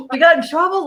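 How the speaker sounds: high, loud, through laughter; laughing mock dread. Actors just scolded on set, laughing mock dread. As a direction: giggle it out like a caught kid.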